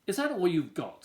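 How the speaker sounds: put-on scoffing kid. Wendell scoffs at toys.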